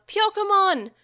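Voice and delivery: very loud, high scream of a name; anguished scream. A narrator's reading. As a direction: cry out in despair. Children screaming partners' names.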